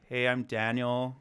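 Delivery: slow, drawn-out American accent; put-on American voice, taking it slow. Shown as a demonstration. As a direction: try on a laid-back stoner American accent. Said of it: "test out my American accent".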